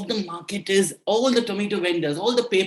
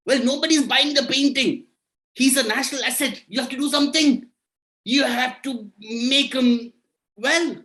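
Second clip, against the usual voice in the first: anxious king; 5 semitones higher than usual. Acted. King and minister argue in voices.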